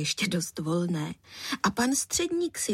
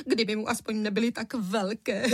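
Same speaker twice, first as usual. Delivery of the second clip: still tearful. A narrator's reading. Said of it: "vzlikala paní Středníková".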